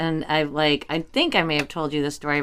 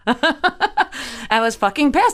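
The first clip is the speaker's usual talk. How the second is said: laughing; 6 semitones higher than usual. Real, not acted. Storyteller explaining her cussing to friends, laughing mock outrage. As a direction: laugh through the retold grievance. Laughing at own retold outburst.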